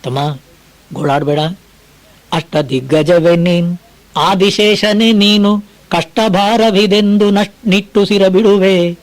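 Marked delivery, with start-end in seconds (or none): 2.3-9.0 slow, measured verse chanting; poem recitation. Acted. Preacher reciting Mankutimmana Kagga to listeners, slow recitation. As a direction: lay out each line of the verse slowly.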